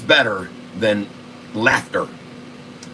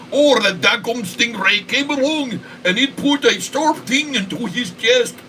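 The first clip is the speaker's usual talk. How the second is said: high voice; 10 semitones higher than usual. Pretend. High voiced aside about stingray.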